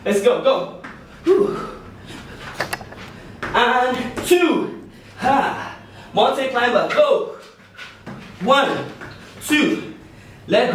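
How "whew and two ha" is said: laughing. Real, not acted. Laughing between exercise sets.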